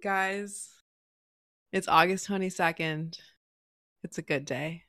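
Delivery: mock grand intro. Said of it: "show us your marvelous introduction plan".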